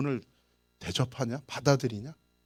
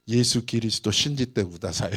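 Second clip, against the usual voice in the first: laughing; 3 semitones lower, 3 dB louder than usual. Retold or imitated. Retold awkward Japanese evangelizing.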